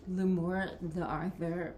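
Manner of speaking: "L'Amour de Arthur" in a clumsy French accent. Real, not acted. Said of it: "pardon my horrible French accent".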